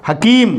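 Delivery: long, held ee in "हकीम"; long vowel. Shown as a demonstration. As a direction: stretch the ee of "हकीम". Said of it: "long sound". ("हकीम" में लंबी ई)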